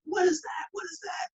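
high, startled what is that; surprised question. Retold or imitated. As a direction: sound caught off guard. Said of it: "We're like".

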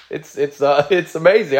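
words catching with real emotion; choked up. Real, not acted. Pastor overcome while telling the church of Jesus' love, choked up. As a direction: let the feeling break through the words. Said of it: "I'm getting all emotional here".

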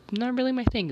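really punched high and loud; not really my thing, really hit hard; stress on really. Real, not acted. Emphatic repeat of her point.

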